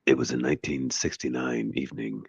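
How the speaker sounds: narrator voice. Shown as a demonstration. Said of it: "I just needed to narrate".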